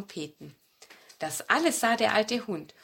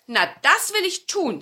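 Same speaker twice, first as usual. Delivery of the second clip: grandmother agreeing; 8 semitones higher, 5 dB louder than usual. A narrator's reading. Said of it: "sagte die Großmutter".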